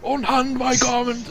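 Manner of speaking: very high, drawn-out outraged cry; acted imperious shriek, stretched out; indignant outcry. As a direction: push the outrage right up to the top of the voice. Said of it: "his eyes just light up with indignation".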